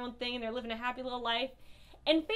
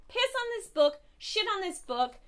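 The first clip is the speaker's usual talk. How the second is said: real rage; 5 semitones higher than usual. Real, not acted. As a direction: spit it out in disgust. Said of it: "I am so full of rage".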